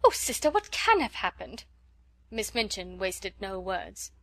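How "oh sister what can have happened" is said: high, louder tearful wail; fretful sister crying out in alarm. A narrator's reading. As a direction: cry out in distress, higher. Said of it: "wring her fat hands and cry".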